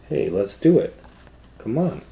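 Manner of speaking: high, eager urging; eager kid voice. Acted. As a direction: coax friends onto the ride. Children urging ride.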